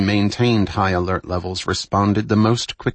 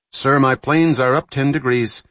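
higher, louder crisp report; crisp naval report; 6 semitones higher, 5 dB louder than usual. Acted. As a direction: report it sharply. Crewman reporting to officer.

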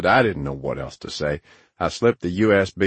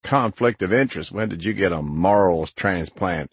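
lightly scoffing, pitched up at first; mocking disbelief. Narrator needles Grinner about his ethics, lightly mocking. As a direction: tease with a mock-incredulous echo. Laughs, throws his words back.

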